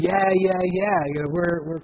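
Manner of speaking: lightly mocking wannabes of a famous band; mock-cool employees. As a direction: imitate record-company guys trying to be hip. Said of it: "and they would say, you know"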